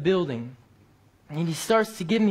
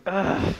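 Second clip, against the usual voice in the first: short retold groan of reluctance; exasperated groan; 2 semitones higher than usual. Bible worker reacting to an angry man following him, retold groan. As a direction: let out a brief "ugh".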